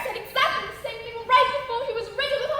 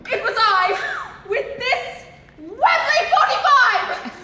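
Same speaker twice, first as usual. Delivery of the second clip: dramatic reveal; 4 semitones higher, 4 dB louder, slower than usual. Acted. Dramatic second confession.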